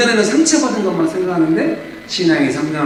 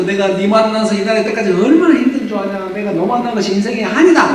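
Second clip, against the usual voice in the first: mock angry wife; 6 semitones higher than usual. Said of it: "막 울고불고 하니까".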